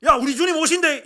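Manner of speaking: Gyeongsang-dialect shout, "오신데이" with a falling ending. Shown as a demonstration. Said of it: "경상도 버전입니다".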